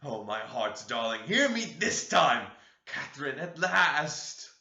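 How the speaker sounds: high, slow, tearful begging; sobbing plea. Acted. Heathcliff calling Catherine's ghost in, slow high sobbing. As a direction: plead through sobs, dragging the words. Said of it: "he sobbed".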